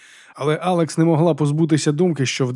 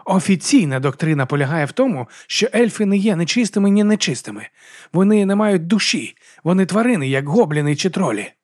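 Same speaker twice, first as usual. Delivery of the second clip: heated monk; 6 semitones higher, 3 dB louder than usual. Acted.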